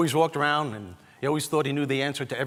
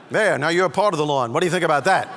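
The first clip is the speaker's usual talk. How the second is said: retold father; 3 semitones higher, 9 dB louder than usual. Father's comeback to smart-mouthed son.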